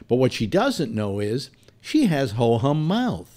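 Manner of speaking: slow, measured commercial read; retold audition read, drawn out; copy read. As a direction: read the script out deliberately. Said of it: "and it reads".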